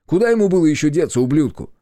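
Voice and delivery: angry outburst. Acted. Yurkan rants about the traitor, fast and loud. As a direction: spit it out in anger.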